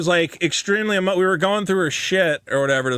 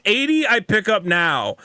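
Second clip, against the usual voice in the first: mock Chinese accent; 3 semitones higher than usual. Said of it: "Every fucking message from a Chinese guy is".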